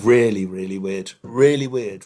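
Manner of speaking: laughing through the words. Real, not acted. Patient laughing with his host about the odd anaesthetic, laughing. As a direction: chuckle out your agreement.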